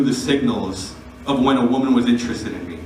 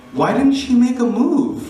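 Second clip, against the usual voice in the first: bewildered self-question; 11 semitones higher than usual. Retold or imitated. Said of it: "I said to myself".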